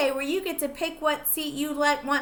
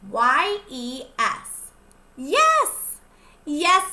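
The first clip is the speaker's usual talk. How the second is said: excited yes; 6 dB louder, much slower than usual. Acted. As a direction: cheer the answer to the kids. Spelling and cheering yes.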